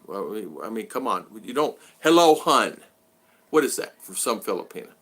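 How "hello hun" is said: loud, put-on syrupy hello hun; mock flirty greeting. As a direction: croon it like a stranger fishing for attention. Mocking the flirty message again.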